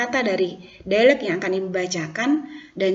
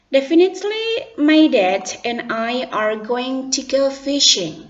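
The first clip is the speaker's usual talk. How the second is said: Bayu's voice; 4 semitones higher, 6 dB louder, slower than usual. Acted. Bayu answers in role.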